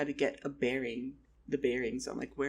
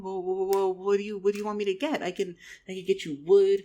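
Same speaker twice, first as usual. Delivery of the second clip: louder, higher, tumbling offer; mock eagerness; 4 semitones higher, 7 dB louder, faster than usual. Stranded traveler offering to fetch materials, eager excitement. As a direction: jump in eagerly with raised voice.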